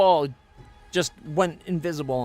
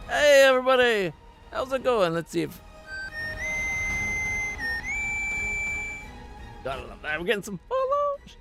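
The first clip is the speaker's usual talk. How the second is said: bright streamer greeting; 7 semitones higher than usual. Acted. Streamer welcomes raiders.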